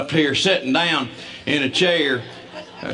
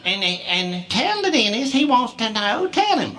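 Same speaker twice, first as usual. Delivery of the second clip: mom's fond pleading; 5 semitones higher, slower than usual. Retold or imitated. Wife urging her husband to share the news. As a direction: coax him gently.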